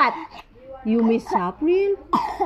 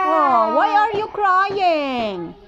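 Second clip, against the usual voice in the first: cooing question; 4 semitones higher, slower than usual. Real, not acted. Parent coos at crying child.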